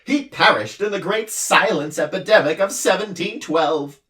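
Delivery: a sobbing little noise-creature; anguished din. A narrator's reading. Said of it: "cried the anguished din".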